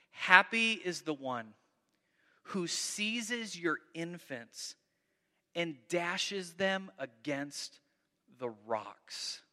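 slow, fading to near silence on the rocks; reluctant reading. Real, not acted. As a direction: read it as if it hurts to say. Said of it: "I can barely read this next verse".

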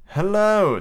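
high, drawn-out friendly hello; amicable. Acted. Peter answering John and Michael's greeting, amicable. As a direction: greet them with easy friendliness. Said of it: "said Peter amicably".

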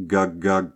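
throaty gug-gug, narrated lightly; imitated gug-gug noise. A narrator's reading. Narrator describing a sound from the fog, imitating it. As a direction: imitate a strange noise in two short syllables. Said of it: "came a sound which can only be described as".

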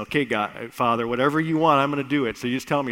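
the keen son ready to obey; eager son. Acted. Jesus eagerly answering his Father.

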